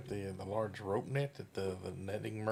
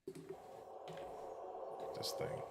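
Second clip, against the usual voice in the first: whispering; 5 dB quieter, much slower than usual. Real, not acted. Admiring the rod.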